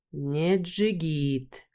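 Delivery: очень медленно, с цоканьем, «Не джигит» тянет с укором; протяни «Не джигит», осуждая; осуждающе, качая головой. Acted. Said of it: "покачал головой, громко цокая языком". (Бархан осуждает бывшего мужа: медленно, с цоканьем)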